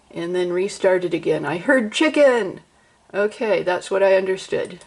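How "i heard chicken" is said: higher-pitched burst of discovery; excited. Real, not acted. Reacting to the first word understood in old English, excited. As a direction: exclaim it with excited triumph.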